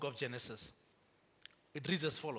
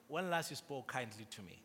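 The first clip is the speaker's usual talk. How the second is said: gentle question; 3 semitones lower, 6 dB quieter than usual. Shown as a demonstration. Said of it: "ask them".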